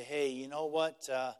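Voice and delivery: a lightly voiced loving pastor; gentle pastoral reminder. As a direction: remind them kindly who owns the church. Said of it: "come alongside them and say".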